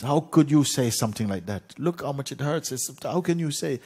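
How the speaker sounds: high, indignant outburst; very upset. Acted. Hurt king rebukes his counselor, upset and indignant. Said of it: "The king was very upset".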